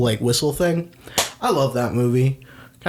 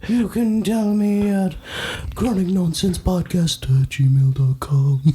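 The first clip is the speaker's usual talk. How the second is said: higher, slow squeaky piglet voice; 6 semitones higher, slower than usual. Pretend. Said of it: "my Piglet impression".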